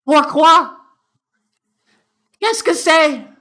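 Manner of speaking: loud, very high French outburst; high-pitched mock-French bafflement. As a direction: squawk it in hammed-up French. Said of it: "why is this lady French?".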